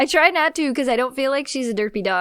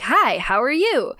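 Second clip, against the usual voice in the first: put-on toddler; 4 semitones higher, 4 dB louder, slower than usual. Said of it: "he says little things like".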